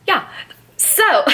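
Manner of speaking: hiccuping mid-word; hiccups. Real, not acted. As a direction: talk through hiccups. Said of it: "me having the hiccups".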